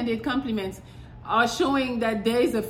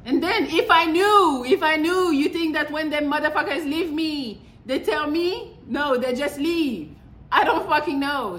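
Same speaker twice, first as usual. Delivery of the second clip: venting at a nosy question, higher and louder; exasperated outburst; 4 semitones higher, 3 dB louder than usual. Real, not acted. Exasperated at the question, higher and louder. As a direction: voice rising high and loud in exasperation. Exasperated rant about being single.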